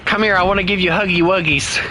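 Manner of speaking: cutesy cooing voice; baby talk. Pretend. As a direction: coo it like to a baby.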